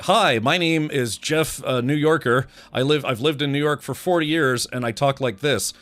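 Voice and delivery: lightly mock a bland actor calling himself a New Yorker; generic mock New Yorker. Streamer mocks a show actor's missing accent, hammed-up. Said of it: "not enough people had, like, nineteen thirties style New York accents".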